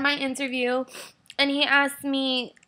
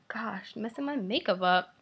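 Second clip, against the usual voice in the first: soft unvoiced aside to herself; breathy whisper while dabbing tears; hushed, tearful muttering; 5 dB quieter than usual. Real, not acted. Wiping tears, murmuring to herself.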